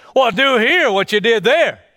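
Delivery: acted, derisive, scornful, sarcastic jibe. Preaching, the speaker acts out the hometown people's taunt: mimicking a sarcastic taunt. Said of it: "You're also going to mockingly, sarcastically, derogatorily say".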